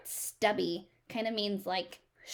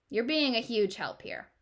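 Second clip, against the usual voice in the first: sarcastic. Acted. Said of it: "She's being sarcastic".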